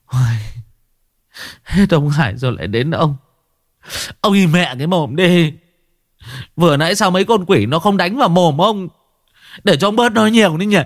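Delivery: exasperated outburst. A narrator's reading. The master, fed up, scolds Long to shut his mouth, exasperated. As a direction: snap at the chatterbox to shut up. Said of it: "Cậu lộn mề".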